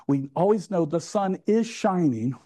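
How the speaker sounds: measured, spelled-out delivery; deliberately slow. Shown as a demonstration. Preacher teasing English congregation about sunshine, deliberately slow. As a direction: say it slowly, as if for listeners slow to believe it. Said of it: "I have to say this slowly for those of you who live here in England".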